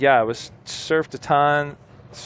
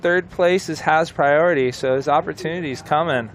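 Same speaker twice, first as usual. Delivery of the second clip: tense commentary; 5 semitones higher, 3 dB louder than usual. Real, not acted. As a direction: build the tension on each line. Calling the heat's end.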